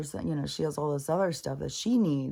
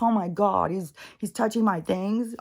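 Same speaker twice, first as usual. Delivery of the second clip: higher, louder whiny complaint; voicing the pouting dog; 4 semitones higher, 4 dB louder than usual. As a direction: speak for the jealous dog, indignant.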